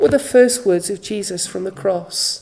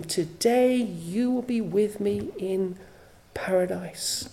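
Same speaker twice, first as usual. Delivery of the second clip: softer, hushed voice of Jesus; tender promise; 7 dB quieter, slower than usual. Retold or imitated. Jesus to the dying thief, softer and tender. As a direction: promise it gently and quietly.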